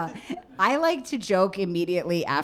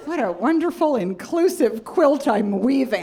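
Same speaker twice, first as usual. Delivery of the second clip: gushing mom voice; 6 semitones higher, 4 dB louder than usual. Retold or imitated. Daughter mimics her mom fawning over a cab driver's name, gushing high. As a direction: savor the name like a fine wine, way up high. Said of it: "Just like".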